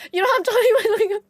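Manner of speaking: high, loud, over-the-top; high loud dramatic plea; excited whine. Real, not acted. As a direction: plead with big drama.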